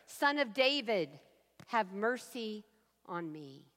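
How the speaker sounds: a pleading prayer that trails off; plaintive cry. Acted. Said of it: "plaintive cry".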